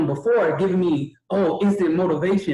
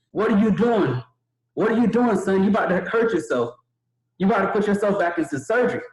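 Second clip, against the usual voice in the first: higher, startled hospital staff; alarmed staff; 3 semitones higher than usual. Retold or imitated. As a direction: cry out in alarm at the patient sitting up. Nurses rushing in, alarmed.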